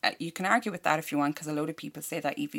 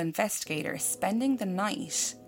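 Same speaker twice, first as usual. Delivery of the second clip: measured, softer news-report reading; news story read-out; 6 dB quieter than usual. A narrator's reading. Host reading a murder-house news story to co-host, measured report. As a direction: read out a grim news story, quietly and evenly.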